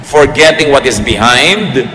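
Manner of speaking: slow, measured Bible verse reading; scripture reading. Acted. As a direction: read the verse out slowly, phrase by phrase.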